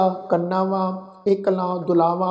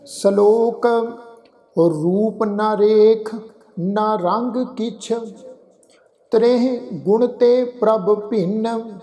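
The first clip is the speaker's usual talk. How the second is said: measured, drawn-out chant of the shalok; slow scripture recitation; much slower than usual. Shown as a demonstration. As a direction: recite each phrase slowly with long pauses. Teacher recites the shalok slowly. (ਹੌਲੀ ਹੌਲੀ ਗੁਰਬਾਣੀ ਪਾਠ)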